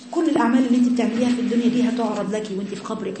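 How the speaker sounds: ordinary talk, nothing marked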